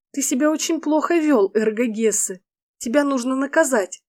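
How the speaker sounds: high playful heroine voice; playful whisper. Acted. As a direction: tease him in a high playful voice. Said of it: "игриво прошептала".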